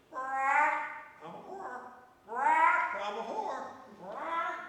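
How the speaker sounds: high squawking parrot voice, quacks included. Acted. Parrot squawking at the priest's parrot, high and shrill.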